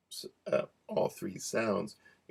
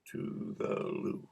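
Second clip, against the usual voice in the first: low whispered joke; 11 semitones lower, 4 dB quieter, slower than usual. Pretend. Joking rhyme.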